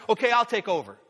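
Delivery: high, loud goose voice; silly clown. Pretend. Goose taking the lead.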